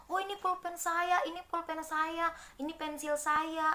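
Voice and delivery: put-on high, insistent child claiming the pen; stubborn insisting. Joni insists the stolen pen is his, high and stubborn. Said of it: "dia bertahan padahal itu salah".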